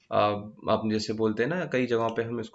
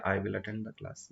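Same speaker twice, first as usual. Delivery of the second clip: slow example sentence; 2 semitones lower, 6 dB quieter, much slower than usual. Shown as a demonstration. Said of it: "same यही concept".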